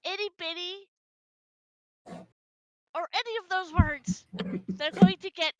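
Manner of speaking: a bit annoyed. Acted. Warning anyone who calls her small, a bit annoyed. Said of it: "You sound a tiny bit annoyed".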